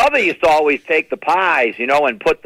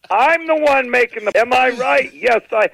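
higher, triumphant self-answer; mother answering herself; 8 semitones higher than usual. Retold or imitated. Mother answering her own question, higher and proud. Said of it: "she'd interview herself".

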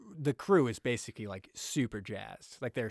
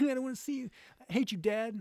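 put-on sulky teen; 11 semitones higher than usual. Neeson as sulking teen.

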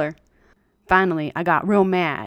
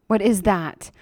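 screeching. Acted. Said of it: "she sort of screeches out".

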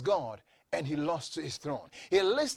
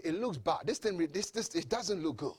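muted doubt; 6 dB quieter than usual. Acted. Voices the doubter's talk.

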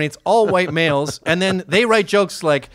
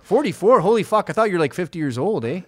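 put-on Canadian accent. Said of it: "Like, they'll go".

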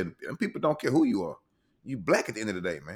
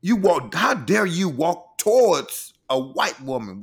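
louder, slow imitation of an indignant woman; mock outraged Karen; 4 semitones higher, 4 dB louder, slower than usual. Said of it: "She like".

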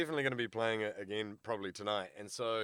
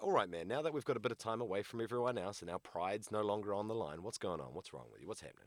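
calm talking-down; 3 semitones lower, 5 dB quieter, faster than usual. Retold or imitated. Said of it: "then I'm like".

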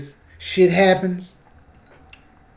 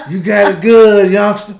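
lightly voiced old-timer, loud; old cat; 7 dB louder than usual. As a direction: praise the youngster like an old cat, amused. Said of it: "That's how them old cats".

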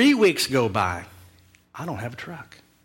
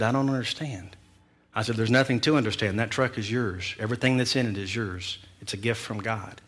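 softer, tender reassurance; gentle and sincere; 2 semitones lower, 4 dB quieter than usual. Retold or imitated. Pastor telling Randy the truck is his, tenderly, much softer. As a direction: lay it on him softly like a gift.

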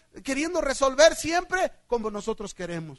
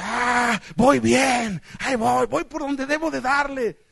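self-assured believer; 3 dB louder, slower than usual. Acted.

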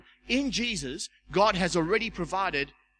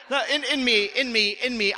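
higher and louder, laughing through the words; laughing confession; 6 semitones higher, 8 dB louder than usual. Real, not acted. Preacher laughing as he admits his real inner reaction. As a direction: giggle as you own up.

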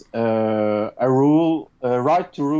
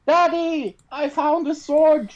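put-on Swedish accent; 13 semitones higher than usual. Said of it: "I will do this in a Swedish accent".

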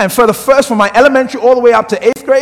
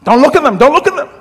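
mother's warning; 3 semitones higher than usual. Retold or imitated. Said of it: "I was taught by my mother".

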